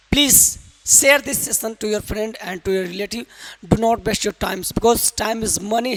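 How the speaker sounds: very slow, deliberate English, word by word; slow formal English. Real, not acted. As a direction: spell out every English word slowly for the learners. Teacher speaks slow English.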